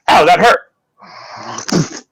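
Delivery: slowed, fading ow as he goes under; drawn-out, sinking into sedation; drowsy ow. Acted. Sedated man slipping into unconsciousness, slow fading ow. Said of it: "Mister Stone just goes".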